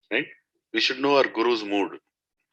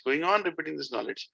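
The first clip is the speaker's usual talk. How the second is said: quieter repeat that lets the phrase sink in; softer echo; 5 semitones higher, 7 dB quieter than usual. Shown as a demonstration. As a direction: echo the line back softly. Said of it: "They are going on repeating".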